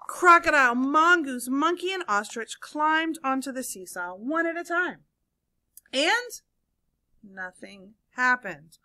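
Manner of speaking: animated story reading with swooping emphasis and hushed letdowns; read-aloud storytelling. A narrator's reading. Teacher reads seesaw story to children, animated storytelling. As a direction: read it to young listeners with suspenseful pauses.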